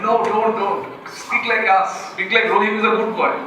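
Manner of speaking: lightly voiced discouraging inner voice in local-accented English; nagging inner voice. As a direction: act out an inner critic urging yourself to stop. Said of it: "there's a voice inside me that's saying".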